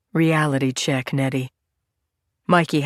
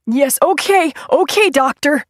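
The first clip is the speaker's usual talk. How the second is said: meek agreement; 10 semitones higher, 6 dB louder than usual. A narrator's reading. Nettie meekly agreeing.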